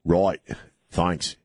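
put-on half-hearted Aussie accent; bad Australian accent. Host signs off a caller, in a bad Australian accent. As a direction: toss it off in a poor Australian twang. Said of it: "worst Australian accent I've ever done".

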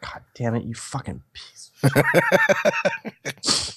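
seething whisper under the breath; furious whisper. Acted. Norman cursing at weeping Kristen, a raging whisper. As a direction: spit the curse out in a whisper. Norman's rage in read scene.

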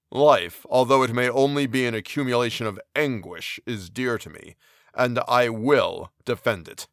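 a wretched giant speaking heavily; brooding creature. Acted. Voices the creature.

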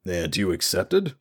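slow, disbelieving question; can't quite believe it; incredulous. Acted. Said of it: "Radric sounded incredulous as he said".

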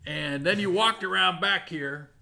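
put-on old prospector. GM voices Deputy Bob.

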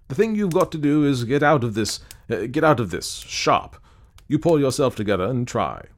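firm, brisk pep talk; brisk urging. Acted. Clayton rousing the despairing ghost to leave, briskly urging. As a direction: urge them to pull themselves together.

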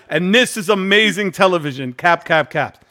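mock announcing the sign; reading a sign aloud. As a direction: shout it like a headline in capitals. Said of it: "In, that's it".

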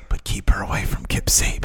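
hushed secretive aside; whispered warning. Retold or imitated. Whispered warning in retold quote.

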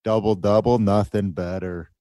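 hammed-up Canadian accent, easing off; put-on Canadian accent. Co-host riffing on coffee, mock Canadian accent. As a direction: savor it in a bad Canadian accent. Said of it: "That's not even a Canadian accent".

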